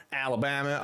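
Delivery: Alabama said the American way, flat a in the middle; American-style Alabama. Shown as a demonstration. Reading chat his attempt at the Southern name, American-style Alabama. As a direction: Alabama with a mock American twang on the vowels. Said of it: "I wanna say it like that".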